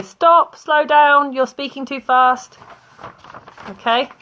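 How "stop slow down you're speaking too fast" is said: high, loud call to stop; telling someone to slow down. Shown as a demonstration. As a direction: raise your voice to halt a fast talker.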